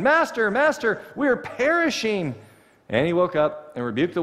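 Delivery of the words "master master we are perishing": retold shout.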